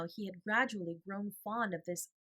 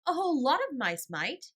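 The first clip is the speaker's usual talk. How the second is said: put-on cheerful child; 8 semitones higher, 8 dB louder than usual. A narrator's reading. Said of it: "he said cheerfully".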